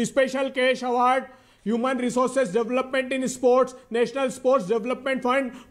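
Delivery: slow, spelled-out list of names; slow deliberate listing. Real, not acted. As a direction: read each name slowly and pointedly. Reading list of schemes slowly.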